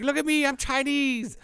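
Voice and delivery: very high, put-on caricature voice; Dave Chappelle bit. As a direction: squeal it as a mocking comedy character. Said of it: "And they're like".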